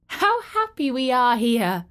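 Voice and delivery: high, bright happy cry; children calling out in delight; joyful children. Acted. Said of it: "they cried to each other".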